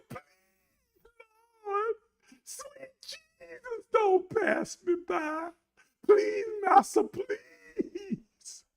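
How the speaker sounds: very high, squeaky whimpered plea; mock begging. Beggar pleading with the Master, mock whimpering. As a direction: whimper it tiny and high, drawing out each please. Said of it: "And I'm just begging them".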